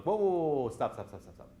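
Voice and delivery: mock halting "whoa", high then dropping; rapid-fire mock stop; retold interruption. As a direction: cut someone off, imitating a casting director. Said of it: "they stop me, like".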